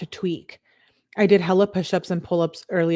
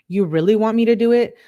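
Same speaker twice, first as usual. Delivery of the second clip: higher, louder, quick challenge; outraged challenge; 5 semitones higher, 6 dB louder, faster than usual. Retold or imitated. Girlfriend challenging boyfriend in a text quarrel, outraged. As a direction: read it as an indignant, rapid-fire dare.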